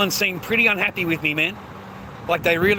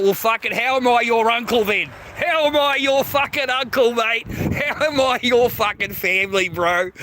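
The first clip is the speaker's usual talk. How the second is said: heated retort; 5 semitones higher than usual. Retold or imitated. Uncle replaying his answer to the nephew, indignant. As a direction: fire it back at the nephew, building to a peak on the second "how".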